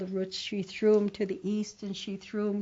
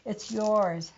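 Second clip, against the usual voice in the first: crying plea; 6 semitones higher than usual. Acted. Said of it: "he was crying and crying".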